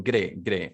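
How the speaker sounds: "G'day" run together as "gde"; contracted pronunciation. Shown as a demonstration. Teacher closing the pronunciation point, "G'day" said run together. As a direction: squeeze "G'day" into one short "gde". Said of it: "just for the pronunciation sake".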